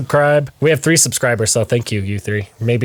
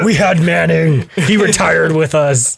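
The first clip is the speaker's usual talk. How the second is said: slow, boastful fan voice; smug fan; 5 semitones higher, 3 dB louder, slower than usual. Retold or imitated. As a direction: brag like a proud fan. Mocking Bronco fans.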